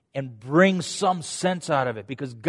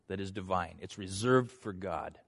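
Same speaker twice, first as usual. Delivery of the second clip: whispered; 7 semitones lower, 11 dB quieter than usual. Acted. Pastor voicing Joseph to his brothers, whispered. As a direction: drop to a reverent whisper. Quoting Joseph's humble words.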